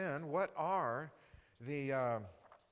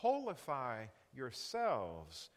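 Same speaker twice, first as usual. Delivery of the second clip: slow coined word; 4 semitones lower, much slower than usual. Shown as a demonstration. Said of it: "if we could use the word".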